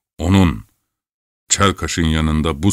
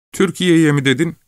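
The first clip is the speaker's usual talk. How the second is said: higher shocked cry; the lad can't believe his ears; shocked outcry; 12 semitones higher than usual. A narrator's reading. Lad crying out at Chelkash's suggestion, high shocked voice. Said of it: "diye bağırdı".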